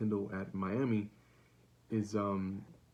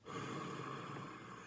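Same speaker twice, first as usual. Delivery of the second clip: deep quiet breath in; long unvoiced breath; breathing demo; 11 dB quieter than usual. Shown as a demonstration. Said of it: "let me demonstrate two or three times".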